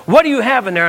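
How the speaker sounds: guard under duress. Retold or imitated. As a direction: bark it like a tense border guard. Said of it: "Like he was under duress".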